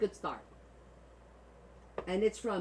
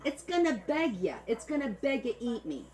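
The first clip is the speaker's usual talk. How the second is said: hammed-up pleading in Italian-American accent; playful Italian-American put-on; macaroni accent; 3 semitones higher than usual. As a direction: beg in a mock macaroni accent. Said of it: "I'm gonna do it like the macaronis".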